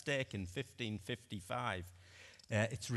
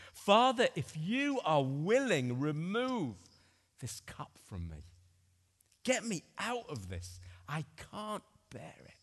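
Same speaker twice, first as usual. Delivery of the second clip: anguished prayer; 3 semitones higher, 4 dB louder than usual. Acted. Jesus praying in agony at Gethsemane.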